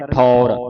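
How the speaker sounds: low-pitched ਠੌਰ, sounding the au vowel; clear AU vowel. Shown as a demonstration. Teacher models the kanaura for students, ਠੌਰ with clear "au". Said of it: "ਕਨੌੜੇ ਦੀ ਆਵਾਜ਼ ਉਚਾਰਨ ਕਰਨ".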